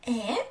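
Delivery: "э" as an open e; э sound. Shown as a demonstration. Teacher quizzing the learner, "э" as isolated open e. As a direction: offer "э" as a separate vowel. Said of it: "what do you hear".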